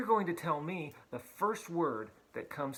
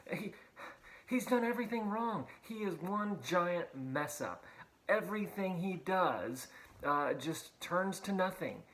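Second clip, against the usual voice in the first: put-on indignant older brother, raised pitch; furious older son; 3 semitones higher than usual. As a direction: vent like the jealous brother. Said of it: "the older son was furious".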